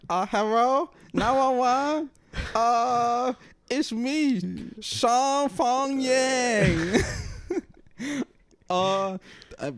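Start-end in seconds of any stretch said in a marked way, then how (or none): 0.1-7.0 high, loud mock Asian accent on a 911 call; hammed-up Asian accent. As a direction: ham up the caller's Asian accent, pitched way up. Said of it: "Doing the accent".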